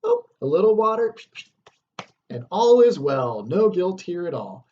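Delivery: high, fast breezy mockery; mocking Lady Macbeth. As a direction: brush off the guilt with a careless laugh in the voice. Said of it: "She's like".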